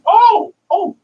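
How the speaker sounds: high, loud imitated excited yard-sale lady. Yard-sale lady eager to show her find, imitated excitedly. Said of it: "She's all excited to show me".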